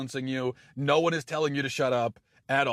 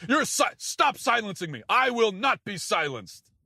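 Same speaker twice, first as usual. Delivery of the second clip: mock outrage; 7 semitones higher than usual. Mocked feminist in argument.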